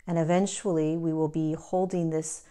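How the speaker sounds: measured guiding voice with long pauses; guided meditation. Real, not acted. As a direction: lead listeners gently into the body, pausing between phrases.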